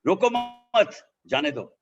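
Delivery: "Roko" hit high and loud at the start; stress on Roko. Shown as a demonstration. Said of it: "Or if I speak".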